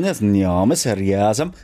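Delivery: slow backwards name; backwards speech. Shown as a demonstration. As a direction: spell the name in reverse, slowly. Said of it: "Kannst du rückwärts reden".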